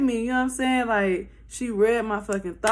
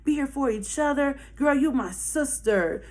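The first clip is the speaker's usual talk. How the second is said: high, syrupy friendly; sweet white girl voice; 4 semitones higher than usual. Retold or imitated. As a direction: gush sisterhood sweetly. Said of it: "This the white girl now".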